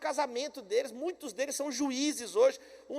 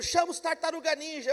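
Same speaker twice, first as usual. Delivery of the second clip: calling out; 5 semitones higher than usual. Retold or imitated. Calling for help in story.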